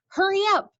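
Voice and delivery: lightly voiced grandmother calling from above. Grandmother calls down to the mouse, urgent hurry. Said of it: "came my grandmother's voice".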